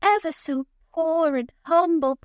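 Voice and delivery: mock poor and humble, laid on thick; lightly voiced scheming parent, syrupy and overdone; overplayed humble con artist. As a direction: ham up the fake humility. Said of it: "Overplaying it so much".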